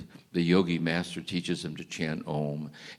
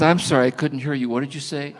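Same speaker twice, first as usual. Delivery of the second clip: pitched up high and loud, calling over a distance; calling across water; 8 semitones higher, 7 dB louder than usual. Retold or imitated. Student calling back to the master from the water. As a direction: shout politely across the lake.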